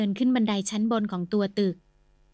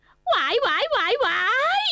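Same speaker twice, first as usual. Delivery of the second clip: much higher, slow hammed-up wail; wailing scream; 14 semitones higher, slower than usual. Terrified wife wails at the news of the ghost. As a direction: shriek in comic terror. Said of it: "คุณหญิงร้องลั่น".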